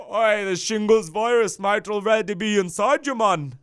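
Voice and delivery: put-on loud, high Aussie accent; Australian accent. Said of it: "I just really go back to Australian".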